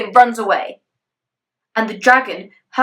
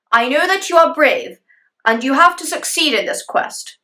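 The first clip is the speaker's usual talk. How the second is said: stern king; 5 semitones higher, 4 dB louder than usual. Acted. King insisting.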